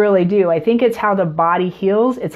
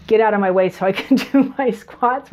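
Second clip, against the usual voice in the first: laughing inner thought. Retold or imitated. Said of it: "was basically my thought".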